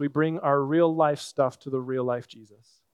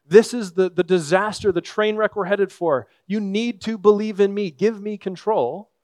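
louder, alarmist stump-speech voice; campaigning politician; 4 semitones higher, 4 dB louder than usual. Retold or imitated. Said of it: "someone gets up and says".

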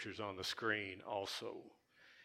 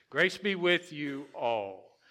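Grace be with you all, higher, louder, slow; slow, higher, louder proclaiming; slow proclaimed verse; 5 semitones higher, 5 dB louder, slower than usual. Shown as a demonstration. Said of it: "concentrate on the word grace".

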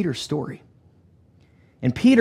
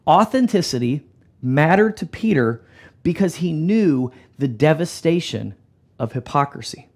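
broken into phrases with pauses; emphatic repeat. Shown as a demonstration. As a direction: say it again deliberately, phrase by phrase. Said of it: "Let me say that again for us".

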